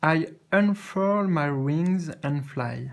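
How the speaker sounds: slow, careful French-accented read of I unfurl my wings and fly; French-accented English. Shown as a demonstration. First read of the card to viewers, slow French-accented English. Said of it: "désolé pour mon accent".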